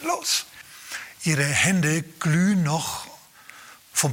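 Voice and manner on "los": a hint of Jesus calling, rising higher to the end; Jesus sending the disciples off, climbing higher on "los"; voicing Jesus. Preacher voicing Jesus ordering the disciples out. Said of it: "Jesus sagt".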